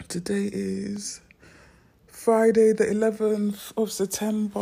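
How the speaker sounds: loud, bright date call-out; excited announcement. Real, not acted. Vlogger greets viewers with the date, loud and excited. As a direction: announce the day with a burst.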